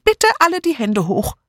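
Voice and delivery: high, dithering, adding a polite "Bitte"; polite misquote. A narrator's reading. Miss Murgatroyd misquoting the robber politely, flustered. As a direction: soften the command into a request. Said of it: "„Hände hoch“, verbesserte Miss Hinchliff".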